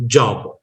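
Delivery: "job" as Indians normally say it; everyday Indian-English "job"; Indian pronunciation. Shown as a demonstration. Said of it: "we people normally pronounce the word".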